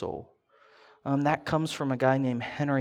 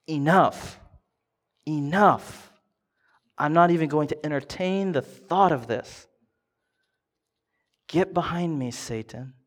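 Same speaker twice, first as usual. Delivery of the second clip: louder, firm "Enough, enough"; mock shout; 4 dB louder than usual. Jesus to Satan, refusing with a raised shout. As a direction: shut the temptation down hard. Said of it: "he shouts".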